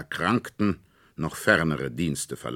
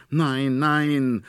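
high, loud protesting no; much higher, louder tearful protest; tearful cry; 11 semitones higher, 6 dB louder than usual. A narrator's reading. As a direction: refuse through tears as a little girl. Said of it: "rief Marie weinend".

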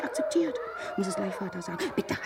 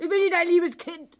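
higher, louder stress on nicht; indignant; 6 semitones higher, 6 dB louder than usual. Acted. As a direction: refuse the pet name hotly. Wife rejects husband's condescension. (empört, Betonung auf nicht)

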